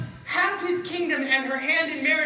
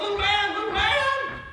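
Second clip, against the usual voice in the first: higher, calling into the woods; 8 semitones higher than usual. Acted. Dumpling calling for the little man in the forest. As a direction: call out for someone far away. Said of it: "he called".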